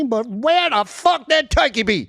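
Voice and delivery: high, laughing through the punchline; laughing refrain. Acted. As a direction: crack up on the punchline. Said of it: "poem refrain laughed out".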